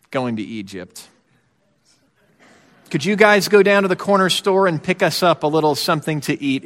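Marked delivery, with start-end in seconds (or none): 2.9-6.7 easy, casual little ask; offhand request. Retold or imitated. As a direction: ask lightly as if reading the paper. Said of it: "is basically how this, how this sounds".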